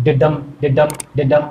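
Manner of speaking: low ডিডাম, weight on ডাম; light ডি then firm ডাম, in steady pulses; iambic beat. Shown as a demonstration. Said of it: "হৃৎপিণ্ড ছন্দে যেরকম ভাবে".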